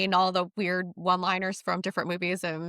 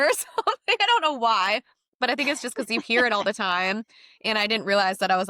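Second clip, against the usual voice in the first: ordinary delivery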